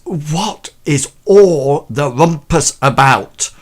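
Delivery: slow, put-upon aristocratic lady with a hand to her head; weary lady of the house. Acted. Lady of the house at the top of the stairs, slow and put-upon. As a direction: drag it out like a lady bothered by the noise. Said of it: "and she says ... got a hand on her head".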